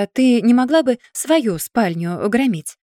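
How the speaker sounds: ordinary delivery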